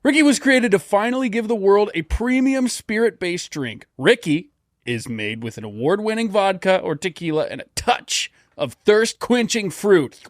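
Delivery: upbeat commercial read. Acted. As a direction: sell it like a radio ad. Reading an ad spot.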